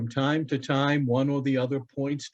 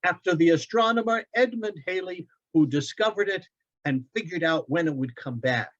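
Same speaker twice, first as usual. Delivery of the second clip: put-on higher, eager boy's voice; young boy Loren; 5 semitones higher than usual. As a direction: play the son, bright and eager. Boy reciting facts.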